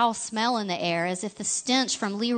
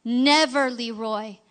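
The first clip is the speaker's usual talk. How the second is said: rumbling anger; 3 semitones higher, 4 dB louder, slower than usual. Acted. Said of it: "his voice rumbled with their power".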